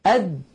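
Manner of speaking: أد with the د held shut; wrong closed d. Shown as a demonstration. Teacher shows the wrong unreleased د. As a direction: stop أد without release. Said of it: "بدل أن يقولوا".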